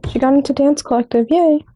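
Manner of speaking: hushed whisper. Real, not acted. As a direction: whisper the news. Whispered aside.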